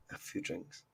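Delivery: breathy whispered repeat of a few drinks; whispered aside. Real, not acted. Podcast host confessing to his co-host, whispered. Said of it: "I'd had a few drinks on Friday".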